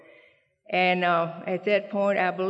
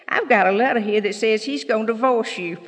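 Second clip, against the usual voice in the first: triumphant reveal; 3 semitones higher, 6 dB louder than usual. Retold or imitated. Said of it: "she whoops out this letter and says".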